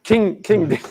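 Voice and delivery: high, loud proud announcement; excited. Real, not acted. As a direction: present it like a trophy. Proudly showing off the spanner.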